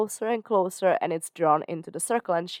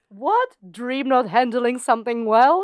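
mock surprise; 4 semitones higher than usual. Mock shock at Dream.

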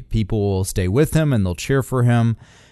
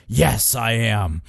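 fake voice; slower than usual. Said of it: "He does the cartoon voice".

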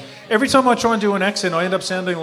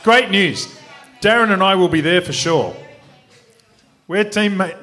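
put-on rough-and-ready South African accent; 2 semitones higher than usual. Racer accepting a wedding invitation, attempted South African accent. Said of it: "do it in the South African accent".

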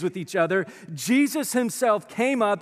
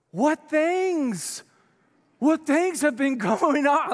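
playful feigned ignorance; 7 semitones higher, much slower than usual. Retold or imitated. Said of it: "He's toying with them".

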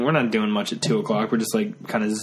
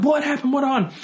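much higher, startled panicked questions; retold freaking out. Friends in the garage asking what happened, mock panic. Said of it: "freaking out".

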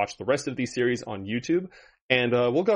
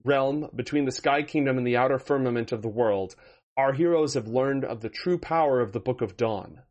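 measured, dramatic recap read; story narration. Acted. Dungeon Master recaps the campaign for the audience, dramatic narration. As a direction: set the scene like an epic storyteller.

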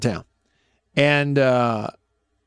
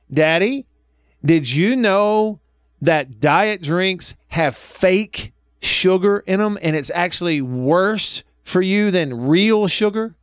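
put-on higher, slow know-it-all child voice; drawn-out instructive child, each word spelled out; lecturing little daughter; 5 semitones higher, slower than usual. Dad imitates daughter explaining fake sugar to him, high and slow.

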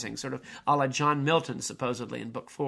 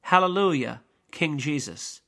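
angels' hallelujah; 5 dB louder than usual. Acted. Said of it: "angels burst into".

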